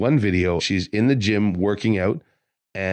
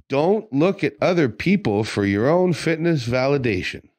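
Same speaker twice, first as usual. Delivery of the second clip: emphatic, higher-pitched warning with DON'T hit hard; hammered-home message; 6 semitones higher than usual. Real, not acted. Trainer warning listeners about fitness validation, hammering it home. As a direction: drive home each word from DON'T through VALIDATION, pitched up. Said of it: "the message needs to be hammered home".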